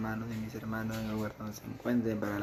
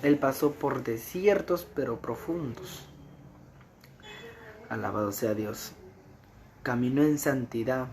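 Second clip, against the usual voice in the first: fervent preaching; 3 dB louder than usual. Acted. Preaching continues.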